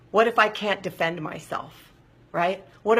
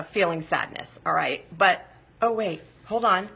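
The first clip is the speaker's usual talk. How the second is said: ordinary delivery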